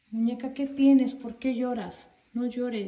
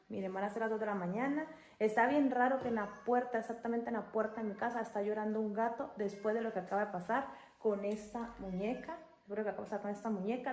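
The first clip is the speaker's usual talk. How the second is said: hushed nervous talk; 2 semitones lower, 8 dB quieter, faster than usual. Real, not acted. Night, nervous, speaking low.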